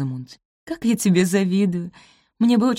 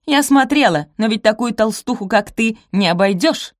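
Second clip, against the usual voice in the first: loud high jeer; mocking insult; 5 semitones higher, 6 dB louder than usual. Rosamund insults Posy.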